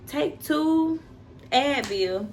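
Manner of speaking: high, mild imitation of the phone nurse; lightly voiced nurse giving instructions; a hint of the phone nurse saying take two Advil. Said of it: "the lady's like".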